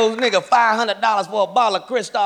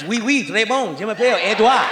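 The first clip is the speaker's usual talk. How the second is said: mock French. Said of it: "I like the French".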